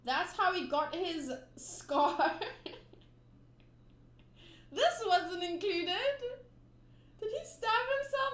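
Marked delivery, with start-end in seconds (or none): 4.7-8.3 high, squeaky cartoon voice, a bit louder; much higher, squeaky disbelieving question; squeaky surprise. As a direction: squeak it like a startled little kid. Reader voicing a surprised character.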